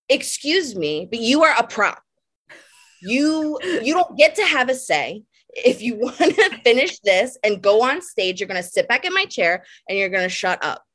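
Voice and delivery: lightly put-on French accent, grand and dismissive. Stylist scolding a model in a French accent. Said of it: "in a French accent".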